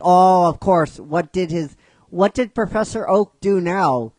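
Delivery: loud, exasperated acted retort. She reacts to news of Professor Oak, exasperated and loud. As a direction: lean loudly on it, fed up.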